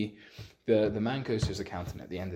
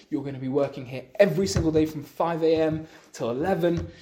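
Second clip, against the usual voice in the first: retold furious yelling at a son, louder; a father scolding his son, voice raised; mock angry screaming; 5 semitones higher, 4 dB louder than usual. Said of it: "starts screaming at him".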